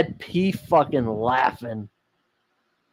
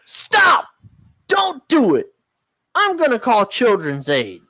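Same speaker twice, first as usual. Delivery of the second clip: high frantic plea; panicked high cry; 7 semitones higher than usual. Acted. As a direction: cry out, much higher, alarmed.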